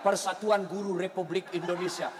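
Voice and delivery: low, even reading voice; reading out print. Retold or imitated. Bored worshipper reading the calendar during prayer, low drone. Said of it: "kalender lagi dibaca".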